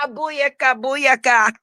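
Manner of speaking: playful Jamaican catchphrase; Jamaican accent. Pretend. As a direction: toss it out in a mock Jamaican accent. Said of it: "It done gave Tay an accent".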